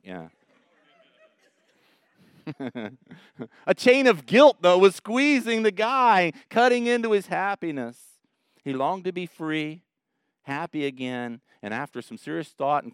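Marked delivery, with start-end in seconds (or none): 3.7-8.0 preacher at full force; preaching loud. Acted. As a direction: drive the image home with force. Preacher building intensity.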